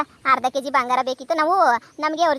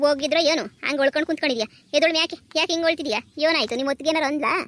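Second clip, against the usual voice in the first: a fussing mother who scolds, then asks what happened; scolding mother; 2 semitones higher than usual. Acted. Mother scolds her sulking daughter, lightly voiced.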